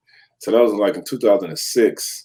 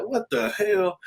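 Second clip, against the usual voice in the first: amused disbelief; 11 semitones higher, 7 dB quieter, slower than usual. Retold or imitated. Reacting to the pillow.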